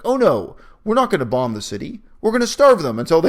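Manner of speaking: high, loud mock-innocent Daenerys; sing-song parody of her starvation plan. Mocking Daenerys to the co-host, high and loud. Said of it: "It's like".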